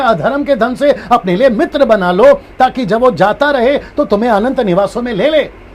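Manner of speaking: lightly sarcastic reading with a laugh; a hint of mocking scripture reading. Shown as a demonstration. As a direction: read it as a taunt. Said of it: "तो ये sarcastic है".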